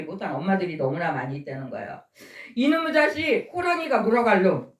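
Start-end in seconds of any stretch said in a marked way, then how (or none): 2.6-4.7 mock cursing scold. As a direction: imitate a Korean grandmother cursing out her children. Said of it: "자식들한테 막 저주의 욕을". (욕하는 할머니를 흉내 낸 가벼운 호통)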